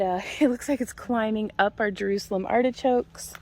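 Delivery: ordinary talk, nothing marked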